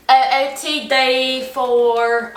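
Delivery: slow, drawn-out sorority OOTD voice; rush TikTok voice. Pretend. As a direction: stretch it like a rush video. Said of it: "I'm gonna try it out today for you".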